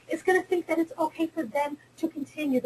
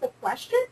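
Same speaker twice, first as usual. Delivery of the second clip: a question rising high at the end like a question; uptalk demo; 8 semitones higher, faster than usual. Shown as a demonstration. Lecturer mocking uptalk to women scientists, rising question tune. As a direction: end on an upward question lilt. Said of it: "I'm ending my sentences".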